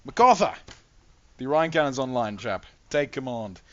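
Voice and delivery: shouted name, then calmer report; gunner calling out. Acted. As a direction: bark the name across the bridge, then report. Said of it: "basically says".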